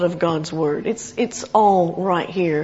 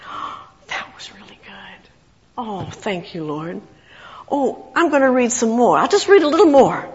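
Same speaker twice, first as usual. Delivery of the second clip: hushed, almost breathless delight at a taste; savoring delight. Retold or imitated. Believer relishing God's Word like chocolate, hushed and savoring. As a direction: murmur it like the first sweet bite. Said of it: "You think".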